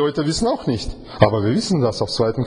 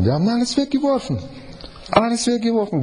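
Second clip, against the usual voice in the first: emphatic repeat; 8 semitones higher, faster than usual. Real, not acted.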